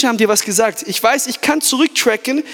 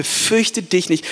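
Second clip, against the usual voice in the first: slow, hushed and gentle; slow tender comfort; 4 semitones lower, 3 dB quieter, much slower than usual. Acted. God calms fearful Paul, slow and tender. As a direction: lay each word down softly. God's words to Paul, slowed.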